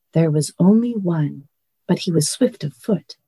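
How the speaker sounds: calm, even reading-aloud voice; story narration. Acted. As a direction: read it like a bedtime story. Reads novel aloud to host.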